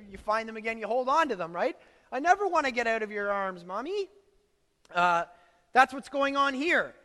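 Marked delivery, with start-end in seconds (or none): 2.1-4.1 lightly voiced little kid, louder, lifting at the end; a hint of a needy child pleading; clinging child. Found child hugging a parent, mock childlike clinging.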